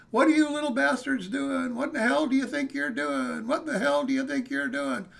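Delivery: put-on irate homeowner confronting teenagers; angry demand. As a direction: bark at the kids caught in the yard.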